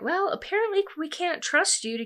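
high-pitched put-on grandmother voice; acted high, haughty scolding; disapproving grandma. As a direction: imitate a grandma's pointed accusation.

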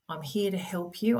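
gentle, reassuring and unhurried; soft voice. Shown as a demonstration. Parent reassuring her melting-down son, soft voice. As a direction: say it softly to calm him. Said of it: "soft voice".

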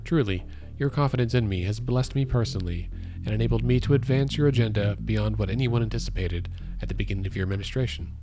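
measured read-aloud in own voice; sober, deliberate reading; formal letter reading. Acted. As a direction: read out an official letter, evenly. Reads resignation letter aloud.

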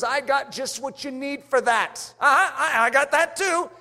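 lightly voiced tempter with an offer; a hint of an eager huckster; the enemy's sales pitch. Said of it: "And he says".

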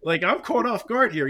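mock a lawyer crying foul to the judge; whiny lawyer. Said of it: "he would be like".

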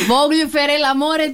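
repeating Italian. Retold or imitated. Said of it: "τι είναι αυτά".

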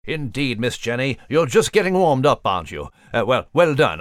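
lightly voiced British gent, teasing; a hint of a dry English gentleman; Nigel voice. Nigel teasing the author about her big books.

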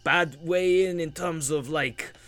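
hammed-up bad Russian accent; scheming villain in a Russian accent; her Russian accent. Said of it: "I'll try and do my Russian accent again".

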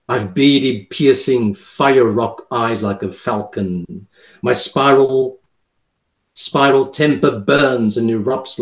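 dramatic poem recital; poem reading. Acted. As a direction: read the poem with measured menace.

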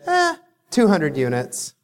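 bored yawned shrug; yawning. Retold or imitated. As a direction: yawn it out, unbothered. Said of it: "hence the yawning".

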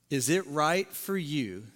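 God quietly questioning Jonah; whispered question. Acted. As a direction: ask it gently, fading into a whisper.

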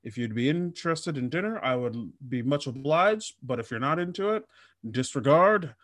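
lightly voiced prim gentleman, a touch formal; mock courtly politeness, only lightly put on; overly polite suitor. Mocking Bill Gates asking a woman to dinner, lightly voiced gallant gentleman. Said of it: "a polite".

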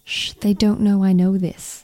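put-on hushed American accent. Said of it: "That's my American accent".

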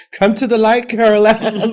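high, loud laughing "Come to the light"; spooky medium call. Pretend. The speaker joking about coming back, laughing spooky call. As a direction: beckon like a medium.

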